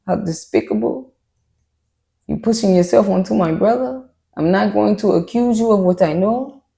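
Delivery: low, quiet mock accusation; imagined accusation. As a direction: voice her unspoken contempt, low and measured. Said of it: "She like, "You know what?".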